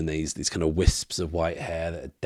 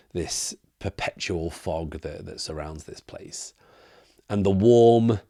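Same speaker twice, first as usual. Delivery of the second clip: game master's scene setting. Acted. Game master narrates mist closing as something approaches, hushed scene setting.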